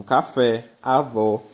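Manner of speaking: "café, avó" with weight on "fé" and "vó"; "café, avó", each word landing firmly on its ending; stress on last syllable. Shown as a demonstration. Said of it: "mais forte é a última".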